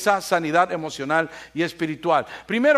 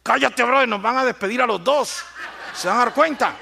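lion hushing; 5 semitones higher than usual. Retold or imitated. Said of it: "el león se le hace y dice".

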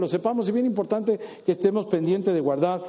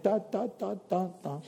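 mumbled gossip; 8 dB quieter, slower than usual. Acted. Mocking gossip about others.

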